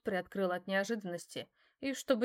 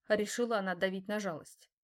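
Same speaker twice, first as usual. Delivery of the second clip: normal talking voice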